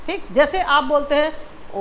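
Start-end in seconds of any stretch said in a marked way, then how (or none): 1.7-1.8 ओ held on one long breath; sustained, steady, very long ओ; extra-long vowel. Shown as a demonstration. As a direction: stretch ओ out for several beats. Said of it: "ज़्यादा time ले रहे हैं ना".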